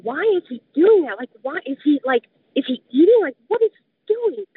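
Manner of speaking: puzzled inner voice, pitch jumping up on the questions; baffled questioning. Retold or imitated. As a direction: replay your bewildered thoughts with rising disbelief. Retelling her baffled thoughts mid-attack.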